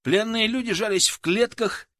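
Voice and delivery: usual speaking voice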